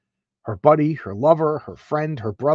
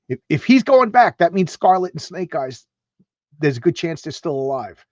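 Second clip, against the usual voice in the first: excited realization; 2 semitones higher, 4 dB louder than usual. Retold or imitated. Soldiers realizing comrades alive.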